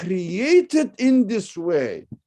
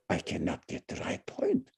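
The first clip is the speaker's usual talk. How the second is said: a low, breathless whisper, imitating a meek follower; mock whisper; 10 semitones lower, 9 dB quieter than usual. Lecturer mimics a follower of tradition in a whisper. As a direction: whisper it like someone hiding from thought. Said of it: "Because they say".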